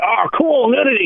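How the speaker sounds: high, gushing "Oh, cool, nudity"; mock excited boy. Recalling boyhood movie nights, high mock thrill. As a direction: ham up a thrilled twelve-year-old. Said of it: "where nudity is like".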